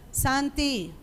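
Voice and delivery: nickname said softly; soft, unforced call. Acted. Mother whose children are used to no yelling, soft call. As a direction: call your son with no shouting at all. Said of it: "yo solamente le digo".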